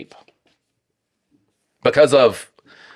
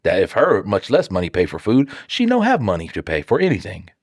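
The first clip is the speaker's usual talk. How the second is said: a hint of a dumb caveman in broken grammar. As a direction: lightly play a caveman talking. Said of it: "like, the caveman grammar".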